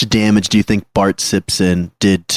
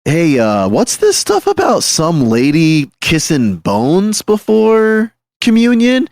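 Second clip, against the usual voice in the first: lightly acted bishop, high drawn-out questioning; puzzled bishop, voice climbing high and slowing; 9 semitones higher than usual. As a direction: stretch out a baffled, high-pitched query. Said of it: "the bishop is like".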